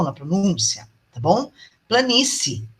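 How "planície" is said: "planície" with a weak final vowel, as spoken; natural diphthong. Shown as a demonstration. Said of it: "uma é fraquinha e outra mais forte".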